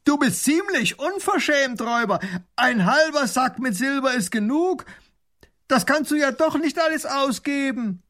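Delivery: high, loud baron shouting through cupped hands; calling across. Acted. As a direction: call over the river to the robber. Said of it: "legt die Hände als Trichter an den Mund und ruft".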